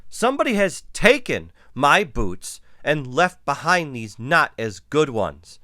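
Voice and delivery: mild storybook wail; high, loud complaint easing off. A narrator's reading. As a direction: wail it lightly as an upset cub. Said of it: "she wailed".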